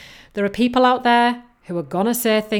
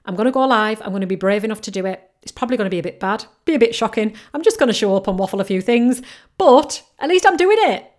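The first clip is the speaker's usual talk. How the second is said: fast, louder, psyching yourself up; pumped-up self-talk; 5 dB louder, faster than usual. Pretend. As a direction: rush it out like a brave pep talk to yourself. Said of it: "Just admit to yourself".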